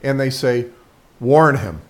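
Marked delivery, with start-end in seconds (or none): 1.2-1.8 firm, loud cue; loud and clear. Shown as a demonstration. Owner giving the dog a loud, clear cue. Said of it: "loud and clear".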